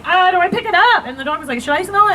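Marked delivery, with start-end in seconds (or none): 0.0-1.0 high-pitched flustered question; hammed-up high fluster; mock panic. Acting out panic after squatting. 1.6-2.1 high-pitched curious dog voice; voiced dog. Voicing the dog's question.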